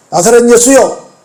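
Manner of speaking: mildly indignant quoted demand; confronting. Retold or imitated. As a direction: challenge him like an accuser. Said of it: "라고 따집니다".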